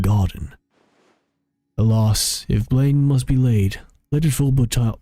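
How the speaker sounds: lightly voiced dignified ancient spirit; solemn archaic voice. Adeptus replies formally.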